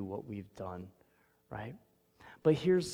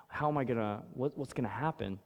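normal talking voice

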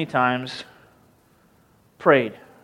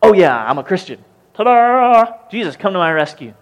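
mock cocky Christian; 3 semitones higher, 4 dB louder than usual. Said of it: "we're like".

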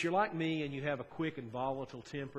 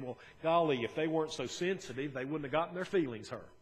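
defensive excuse; 2 semitones higher, 4 dB louder, faster than usual. Retold or imitated. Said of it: "we'll play the game".

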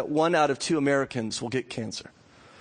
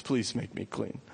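begging; 4 semitones lower, 8 dB quieter than usual. A narrator's reading. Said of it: "begging Jesus".

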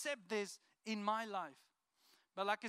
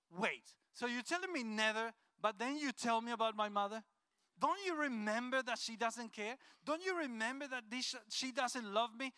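retold anger. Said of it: "like, even more angry".

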